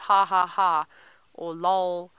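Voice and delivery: deadpan reading of typed laughter; straight-faced. Shown as a demonstration. Guide confessing fake typed laughs, straight-faced. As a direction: say the laugh words without any amusement. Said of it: "with an absolute straight face".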